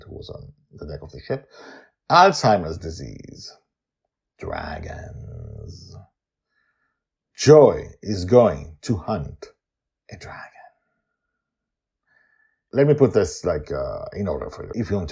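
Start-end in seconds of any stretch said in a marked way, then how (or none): 4.4-5.9 whisper. Acted. Whispered outro tag. 10.1-10.5 whisper. Acted. Whispered teaser.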